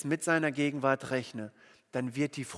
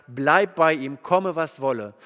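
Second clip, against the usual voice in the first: firm, louder call from the sideline; coach's order; 5 dB louder than usual. Retold or imitated. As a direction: bark it like a coach giving an order. Coach instructs defender in football.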